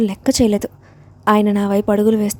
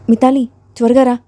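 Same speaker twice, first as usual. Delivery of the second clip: a mild urgent call, a little louder; shouting for help; 2 semitones higher, 4 dB louder than usual. Acted. Mother-in-law calls Mitali to hurry, mild urgent shout. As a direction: call out to the next room for help. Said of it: "గట్టిగా కేకలు వేసింది".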